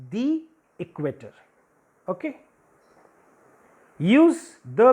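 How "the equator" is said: "the" with a long ee, then equator; "the" as thee. Shown as a demonstration. Teacher returns to the vowel rule, "the" said "thee". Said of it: "but again".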